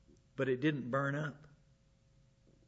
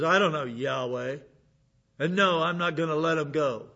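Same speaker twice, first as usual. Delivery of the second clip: defiant Pharaoh; 5 dB louder than usual. Retold or imitated. Pharaoh refusing Moses.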